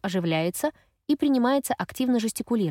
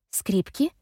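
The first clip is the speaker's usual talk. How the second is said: stunned echo. A narrator's reading. Effie frozen, repeating the word, not grasping it yet. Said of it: "Мгновение я не могу пошевелиться".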